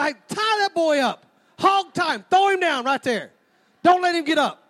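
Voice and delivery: mock shout. Shouting at the boy in church.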